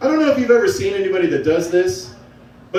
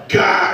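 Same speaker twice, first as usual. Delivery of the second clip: brain-short-circuit gasp. Retold or imitated. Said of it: "my brain just went".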